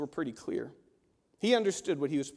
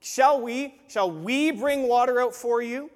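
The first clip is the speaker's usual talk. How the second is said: puffed-up pride; 5 semitones higher, 7 dB louder than usual. Retold or imitated. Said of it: "He's puffing himself up".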